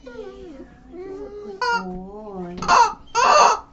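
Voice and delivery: high, laughing through tears; sob-laugh the praise. Real, not acted. Laughing crying to dog.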